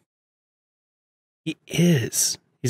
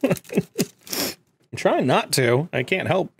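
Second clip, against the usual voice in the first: laughing; 4 semitones higher, much slower than usual. Real, not acted. Laughing about tickled eyeball.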